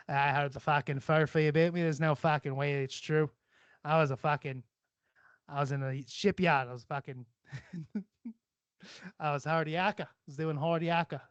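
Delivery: jokey put-on Aussie accent; Australian accent. Trying out slang in made-up lines, mock Australian accent. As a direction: play at being an Australian shipyard worker. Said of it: "I do a lot of fucking, uh, accents".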